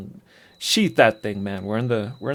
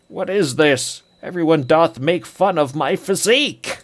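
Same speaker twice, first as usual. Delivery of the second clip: offended bard; 5 semitones higher, 3 dB louder than usual. Acted. Iolo complains about being mocked.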